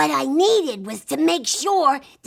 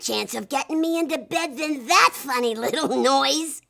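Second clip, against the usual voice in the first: laughing; 2 semitones higher than usual. Acted. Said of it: "I laughed".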